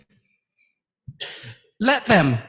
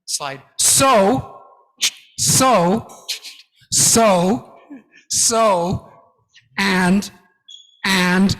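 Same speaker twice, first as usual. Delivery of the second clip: weak presenter demo; much slower than usual. Shown as a demonstration. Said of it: "Bad presenters often do this".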